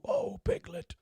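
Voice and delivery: very high, soft squeak; Piglet voice. Retold or imitated. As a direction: squeak like a tiny timid piglet. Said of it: "No more Piglet".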